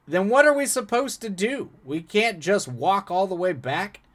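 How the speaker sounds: desperate high-pitched voice. Reading a story aloud, the narrator gives a character's question: desperate rather than angry. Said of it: "He asked in a more desperate than angry tone".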